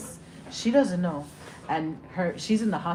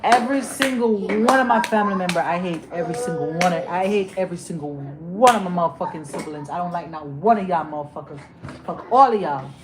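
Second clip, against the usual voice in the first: louder, rising anger building to a shout; furious rant; 4 dB louder than usual. Real, not acted. Vlogger shouts her hatred at her family, furious. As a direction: spit it out at the family.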